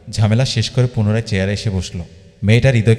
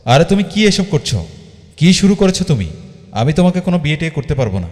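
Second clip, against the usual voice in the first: much higher, rushing protest; panicked refusal tumbling out fast; frantic protest; 6 semitones higher than usual. A narrator's reading. Hridoy refusing the sudden marriage plan, high and frantic.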